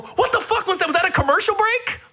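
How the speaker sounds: high, laughing disbelief; baffled disbelief. Retold or imitated. The speaker to Tiffany, retelling Tracy's pizza break, laughing disbelief. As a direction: squeal it out, cracking up. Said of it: "I go".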